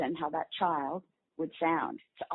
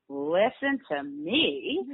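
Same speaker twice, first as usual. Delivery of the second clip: amazed; 2 semitones lower, much slower than usual. Retold or imitated. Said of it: "and you'll say".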